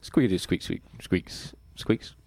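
squeaky rubber duck. Retold or imitated. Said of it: "Were you doing it right".

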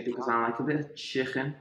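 mock German accent. Mock German chicken line.

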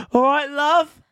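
put-on high, loud drunk greeting; hammered friend flirting. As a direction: call out dopey and drunk. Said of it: "do the facial expression".

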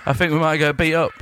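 put-on Cockney patter; Cockney accent. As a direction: play a Cockney chancer. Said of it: "you do a Cockney as well".

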